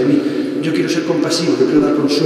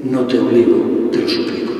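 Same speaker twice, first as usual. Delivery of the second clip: sweet voice; 4 semitones lower than usual. Retold or imitated. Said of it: "esa voz dulce que me dice".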